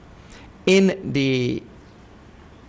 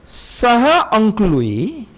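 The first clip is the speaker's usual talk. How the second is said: playful uncle voice; 8 semitones higher, 6 dB louder, slower than usual. Retold or imitated. Teacher applies example, acting.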